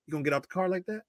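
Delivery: soft, lightly imitated Southern accent. Brother-in-law questioning the women, in a lightly imitated Southern accent. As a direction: quietly put on a slight Southern accent. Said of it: "the Southern accent".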